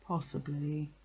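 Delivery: understated gloomy reply; grudging, unmoved answer; unimpressed. A narrator's reading. Eeyore damps the excitement.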